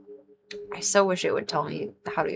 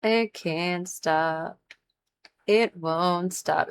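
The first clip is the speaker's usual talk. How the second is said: yawning; 4 dB quieter, much slower than usual. Real, not acted. Yawning while speaking.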